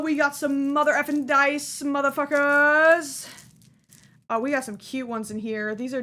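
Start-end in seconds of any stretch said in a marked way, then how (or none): 0.0-3.3 loud, gleeful swearing; excited yell. Real, not acted. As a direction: shout it out with glee.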